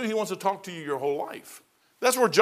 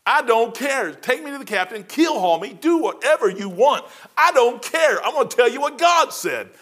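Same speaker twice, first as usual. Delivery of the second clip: loud and high, refusing to back down; defiant declaration; 7 semitones higher, 5 dB louder than usual. Retold or imitated. Sailor to Master Chief, loud defiant refusal. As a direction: throw it at him, voice raised.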